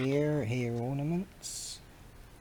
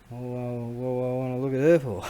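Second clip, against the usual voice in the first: fast, loud, cocky comeback; drunk cheeky reply; 5 dB louder, much faster than usual. Retold or imitated. Drunk young man mouthing off to a stranger, cocky. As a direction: toss it off like a drunk smart-mouth. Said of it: "I go".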